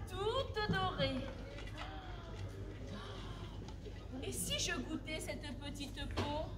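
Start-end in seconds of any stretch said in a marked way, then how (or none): 4.2-6.5 tempted murmur. Acted. Wife tempted, whispering to herself.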